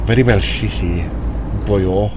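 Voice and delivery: light Welsh lilt; Welsh accent. Pretend. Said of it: "We're doing our Welsh accents now".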